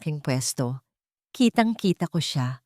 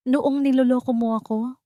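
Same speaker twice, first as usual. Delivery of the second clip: sharp, higher accusing question; cold accusation; 7 semitones higher than usual. Acted. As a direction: throw the betrayal back at him. Wife confronts cheating husband. (malamig at matalim na paratang)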